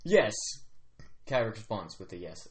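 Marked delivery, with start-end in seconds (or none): 0.0-0.3 loud, higher, ringing answer; resounding. Acted. Kyrak answering about the death games, resounding. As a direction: let the one word resound. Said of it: "a resounding yes".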